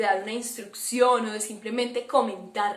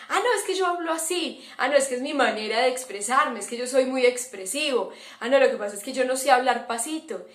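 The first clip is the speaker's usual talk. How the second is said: mocking a loud talker's excuses; faster than usual. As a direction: rattle off the excuses like someone caught out. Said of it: "la excusa que dan es". (imitando excusas con burla ligera)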